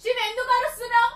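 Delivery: high, loud protest; shouting back. Acted. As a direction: yell back why he is yelling. Girlfriend yells back at shouting boyfriend. (తిరిగి అరుస్తూ)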